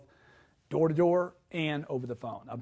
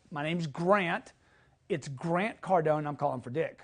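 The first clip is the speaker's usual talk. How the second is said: slow demo. Shown as a demonstration. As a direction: take it slowly and calmly. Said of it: "If you wanna add a second name".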